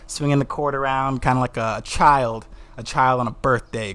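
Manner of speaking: real excitement, bursting out high and loud at first; excited. Real, not acted. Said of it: "'cause I'm excited about this episode".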